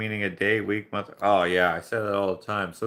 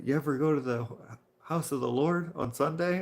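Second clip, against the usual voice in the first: higher-pitched French accent imitation; 6 semitones higher than usual. Coworker retries his church question, imitated French accent. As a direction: imitate a French-speaking coworker asking earnestly. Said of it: "but I am French".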